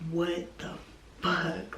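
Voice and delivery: hushed, breathless disbelief; a stunned whisper at the wreck; shocked whisper. Retold or imitated. Looking at her flipped car, a shocked whisper.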